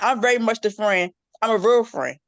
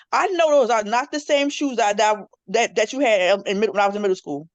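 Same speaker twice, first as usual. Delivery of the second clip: teasing her father; 3 semitones higher than usual. Retold or imitated. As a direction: scold daddy about his old boots, playfully. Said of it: "I would be my father in a minute".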